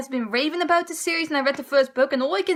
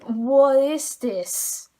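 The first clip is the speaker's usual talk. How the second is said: slow, drawn-out baffled disbelief; mock bewildered reader; slower than usual. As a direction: stretch it out like you can't believe the page. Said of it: "and I was like".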